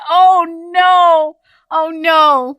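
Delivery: loud, high, hammed-up dismay; retold dismay. Newcomer realizing the neighbor understood nothing, comic retold dismay. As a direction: play up the horrified realization. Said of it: "I'm like".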